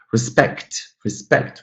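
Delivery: "Respect" as re-SPECT; respect, end-stressed both times; second-syllable stress. Shown as a demonstration. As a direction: lean on the last syllable of respect. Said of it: "always going to be the second syllable".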